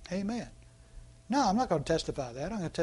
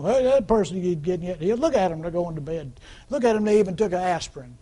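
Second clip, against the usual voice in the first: mock shaming gossip. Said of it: "healing shaming".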